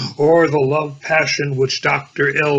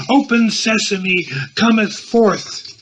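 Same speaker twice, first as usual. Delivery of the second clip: magic incantation; 6 semitones higher than usual. Acted. Magic invocation in character.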